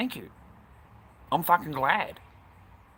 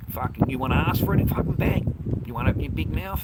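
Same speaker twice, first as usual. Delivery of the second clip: loud, scornful yell at a troll; shouting down a mouthy viewer; angry yell; 3 semitones higher, 7 dB louder than usual. Real, not acted. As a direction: blast the heckler. Streamer yelling at a chatter.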